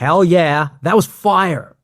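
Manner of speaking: hammed-up triumphant hype; imitating a pumped-up bro; celebrating chiropractor.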